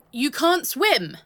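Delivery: very loud, slow horrified outcry; shocked shout. Acted. Learning partner can't swim, shocked loud outcry. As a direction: blurt it out aghast.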